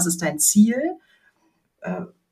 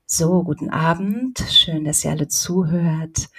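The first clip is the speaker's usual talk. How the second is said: right in your ear. Shown as a demonstration. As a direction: lean into the mic and speak close. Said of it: "Ich kann das mal vormachen".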